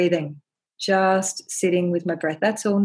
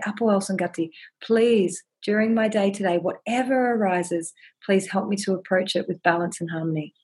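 prayer to the mountain. Shown as a demonstration. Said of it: "So I say".

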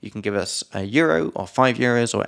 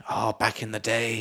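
nostalgic quote; 5 dB quieter than usual. Retold or imitated. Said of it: "Often when you're talking about stories".

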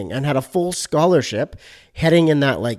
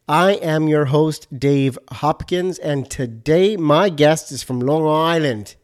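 put-on failed Long Island accent; slower than usual. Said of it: "that was, like, Australian".

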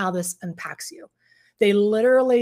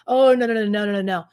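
mock protest; 5 dB louder, faster than usual. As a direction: play someone brushing off a complaint. Acts addict brushing off partner's anger.

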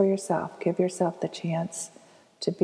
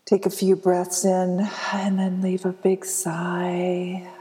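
guided meditation. Acted. Host guiding listeners to be present, guided meditation. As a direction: lead them gently through breathing and letting go.

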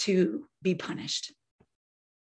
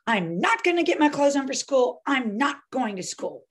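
put-on defiant kid; 4 semitones higher than usual. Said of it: "And you go".

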